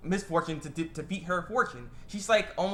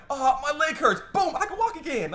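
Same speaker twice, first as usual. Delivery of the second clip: high, loud hammed-up exclamation; mock miracle cure; 11 semitones higher, 6 dB louder than usual. Mocking bystanders healed by spilled fortune, hammed-up amazement. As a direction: play both ailment and cure absurdly big. Mocks sudden miraculous healing.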